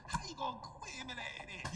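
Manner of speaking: mimicked garbled, run-together mumble; unintelligible mumble. Showing nobody knows what was said, garbled mumble. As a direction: smear the words together in imitation. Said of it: "Being inaudible, completely different".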